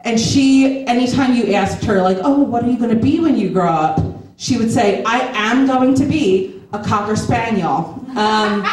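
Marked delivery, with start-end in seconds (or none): 5.0-8.0 slow, deliberate declaration; emphatic child. Retold or imitated. Little girl announcing her future to adults, emphatic. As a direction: imitate a kid stating it emphatically, word by word. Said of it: "she was very emphatic".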